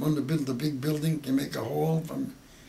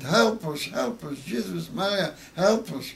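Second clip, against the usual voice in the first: raised, higher pleading cries for help, relived; retold screaming plea; 5 semitones higher than usual. Survivor recalls townspeople screaming for help from the ravine, raised pleading voice. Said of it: "they screamed".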